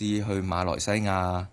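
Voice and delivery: slow, drawn-out 馬來西亞; 慢慢糾正. Shown as a demonstration. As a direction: say 馬來西亞 slowly for a child to copy. 糾正細路講錯目的地. (慢慢拉長讀「馬來西亞」)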